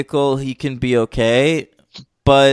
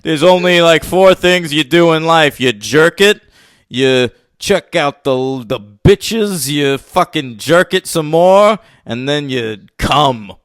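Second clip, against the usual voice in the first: lightly voiced cocky character; hint of a put-on lug introducing himself; Don John. Impressionist as actor showing the host his movie character voice, lightly put-on. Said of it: "you wanna hear my Don John voice?".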